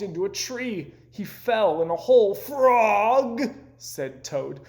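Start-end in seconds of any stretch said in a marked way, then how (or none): 2.3-3.4 high, loud call. A narrator's reading. Toad calling to Frog from a hole, loud and helpless. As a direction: cry out for help, lost.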